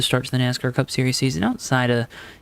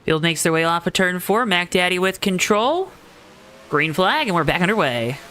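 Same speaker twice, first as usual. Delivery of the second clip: excited race call; 6 semitones higher than usual. Real, not acted. Green flag restart call.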